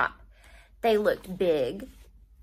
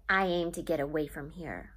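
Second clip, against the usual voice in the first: low, softer grumbling under the breath; muttered; 5 semitones lower, 6 dB quieter than usual. Acted. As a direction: mutter it to yourself, sulking. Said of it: "Buck muttered".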